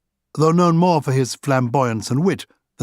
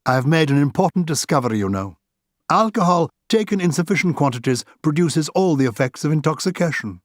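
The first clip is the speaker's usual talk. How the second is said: higher, quick mock-grave delivery; lightly voiced Oscar; 4 semitones higher than usual. Oscar, tipsy, announcing his wry discovery to Arthur with mock gravity. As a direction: deliver the joke as solemn discovery.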